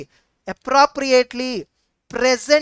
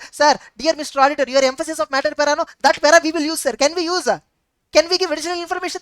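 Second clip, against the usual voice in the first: lightly acted client, high and quick; rapid-fire imitated client questions; management's request; 4 semitones higher, faster than usual. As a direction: put a hurried, higher-pitched request to the auditor. Acts out management pleading with auditor.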